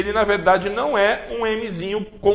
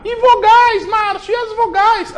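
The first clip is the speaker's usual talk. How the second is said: much higher, louder squeaky pupil asking the teacher; student voice; 5 dB louder than usual. Acted. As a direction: play a cheeky student calling out to the teacher.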